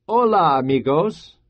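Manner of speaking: bright-spirited hello, lifted at the start; grinning greeting. Acted. Pedro waves to the children, grinning greeting. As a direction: greet them with a grin. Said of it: "he said with a grin".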